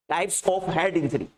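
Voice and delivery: drawn-out dictation, word by word; slow dictation. Real, not acted. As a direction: dictate slowly for students writing it down. Repeats the heading for note-takers.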